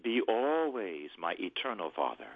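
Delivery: prayer phrase. Shown as a demonstration. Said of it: "But I'll do it phrase by phrase".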